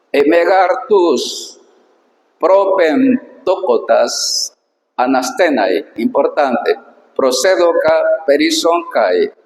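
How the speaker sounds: slow, careful reading of ancient Greek. Shown as a demonstration. Teacher reading the Greek verse to students, slow and careful. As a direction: read each word apart for the students.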